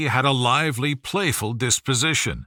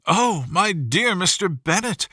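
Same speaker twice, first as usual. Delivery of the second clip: excited; 5 semitones higher than usual. Acted. Excited wife greeting husband.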